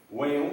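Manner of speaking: "Whale" con vocal e, como "ueil"; pronunciación contrastada. Shown as a demonstration. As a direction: di "Whale" sin confundirlo con "while". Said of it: "pero no son iguales". (pronunciar "Whale" con e clara)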